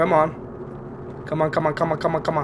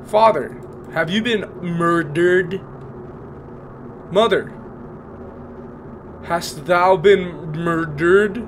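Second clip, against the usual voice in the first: mock theatrical calling. Mock theatrical call to parents.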